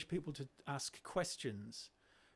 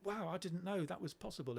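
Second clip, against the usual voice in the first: higher, wide-eyed amazement, half-acted; imitating amazed teachers; 5 semitones higher, 3 dB quieter than usual. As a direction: mimic a teacher stunned by a quiet girl. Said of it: "'cause teachers go".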